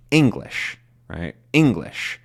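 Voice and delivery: "English" with the first syllable stressed; word stress demo. Shown as a demonstration. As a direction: lean on ENG in "English". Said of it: "there's these bounces".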